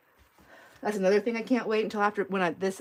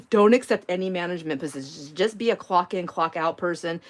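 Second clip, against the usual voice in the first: louder, insistent motherly advice; firm advice; 4 dB louder than usual. Retold or imitated. Mom lecturing her daughter on jobs, louder and insistent. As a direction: lay down the law to your daughter. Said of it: "And I told her".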